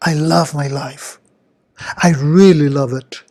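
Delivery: smiling, sincere self-affirmation. Shown as a demonstration. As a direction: say it through a smile, leaning on REALLY. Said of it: "I smile when I say it".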